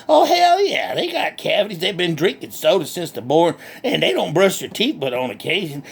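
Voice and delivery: lightly voiced country hick, cheerful and boastful; redneck Bubba. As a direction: play a proud backwoods redneck bragging. Bubba answers.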